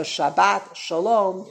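slow sha-BAT sha-LOM for "Shabbat Shalom"; Sephardic pronunciation. Shown as a demonstration. Teacher names the Sephardic greeting, "Shabbat Shalom" slowly end-stressed. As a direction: open A in "Shabbat", weight on final syllables.

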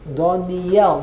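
"Doniel" with the emphasis on the Y; correct pronunciation. Shown as a demonstration. Teacher corrects the class on the name, "Doniel" stressed on the Yud. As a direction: stress the last syllable of "Doniel" as "yel". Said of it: "The emphasis is on the Yud".

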